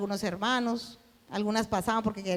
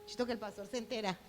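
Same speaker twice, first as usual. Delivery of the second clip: hushing; 12 dB quieter than usual. Retold or imitated. Hushing husband so pastor won't know.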